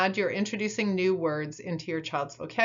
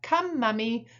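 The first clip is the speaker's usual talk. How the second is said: parent modelling; 5 semitones higher than usual. Shown as a demonstration. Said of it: "you might repeat back".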